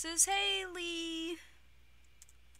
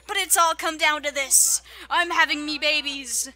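triumphant gloating; 7 dB louder than usual. Real, not acted. Gloating about winning the game.

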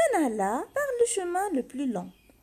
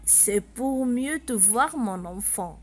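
slow, lower wolf voice; wolf soothing the girl, slow and sly; 4 semitones lower, slower than usual. Acted. Wolf answers in disguise.

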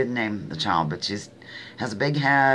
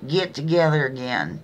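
lips still, Texas accent; 5 semitones higher, 4 dB louder than usual. Shown as a demonstration. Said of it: "especially with a Texas accent".

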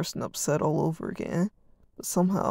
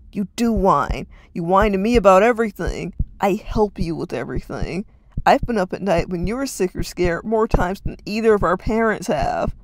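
loud, sustained angry yelling; yelled; 8 dB louder than usual. Acted. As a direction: unload on his brother. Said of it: "Reed yelled at him".

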